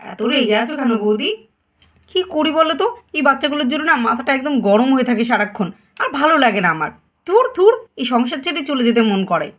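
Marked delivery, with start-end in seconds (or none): 2.1-9.5 exasperated outburst. Acted. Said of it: "কাকিমণি এত চিৎকার করছে কেন".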